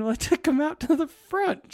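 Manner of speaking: high mock answer. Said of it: "I said".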